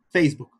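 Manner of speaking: "Facebook" with English vowels, punched out; English pronunciation. Shown as a demonstration. Teacher repeating how true English would sound, English pronunciation. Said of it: "tienes que decir Facebook".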